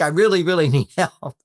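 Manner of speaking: a needy, pleading ask for help; self-deprecating plea. Shown as a demonstration. Woman putting herself down to ask a man for help, pleading. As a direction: put yourself down as you beg for help. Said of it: "they will often put themselves down".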